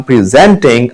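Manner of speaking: "presenting" slowly as pri-ZENT-ing; second-syllable stress. Shown as a demonstration. Teacher giving a verb example, "presenting" as pri-ZENT-ing. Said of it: "stress है वो second".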